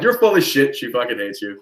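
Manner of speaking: ongelovig. Retold or imitated. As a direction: call out his lie, mocking. Calling out prank caller's lie.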